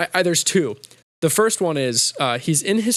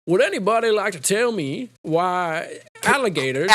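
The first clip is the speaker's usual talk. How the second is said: higher, put-on professor voice; Colonel Sanders; 4 semitones higher than usual. College professor quizzing the class, higher put-on voice. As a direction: pose it to the room as a hammy lecturer. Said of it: "the Colonel Sanders is like".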